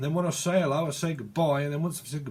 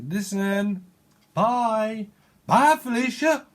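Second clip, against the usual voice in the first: sassy dismissal; 6 semitones higher, 5 dB louder, much slower than usual. Retold or imitated.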